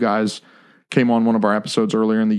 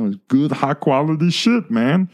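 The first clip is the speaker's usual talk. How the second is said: higher-pitched, put-on foreign accent, not quite Borat; producer Nick's accent; 6 semitones higher than usual. Host imitating a podcast producer's accent, mock foreign accent. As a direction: imitate an accent of Venezuela with Italian parents. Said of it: "I have an obsession with his accent".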